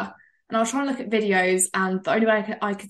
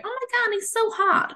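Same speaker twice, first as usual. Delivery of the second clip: much higher, mock swooning gasp; swooning cartoon women; 14 semitones higher than usual. Mocking the cartoon women swooning over human Shrek: high swoon. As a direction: squeal it like a smitten cartoon woman. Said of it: "all the cartoon women are going".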